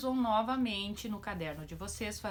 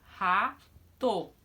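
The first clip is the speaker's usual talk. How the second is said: loud example word; 7 dB louder than usual. Shown as a demonstration. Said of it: "Olha lá os exemplos".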